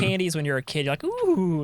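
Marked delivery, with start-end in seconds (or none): 1.0-1.6 put-on excited kid.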